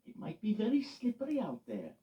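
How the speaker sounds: loud, high urgent warning. Acted. Loretta warning Eddie about icy roads, urgent. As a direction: caution him earnestly. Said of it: "warned Loretta".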